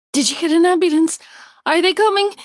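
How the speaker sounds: loud, high anxious call; frantic call back to her friend. A narrator's reading. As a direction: call over the shoulder. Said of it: "she calls behind her to Sylvia".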